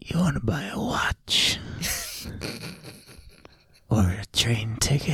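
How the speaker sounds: whispered sketchy street seller; shady whisper. Acted. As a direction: hush it like a back-alley deal. Shady dealer offering wares.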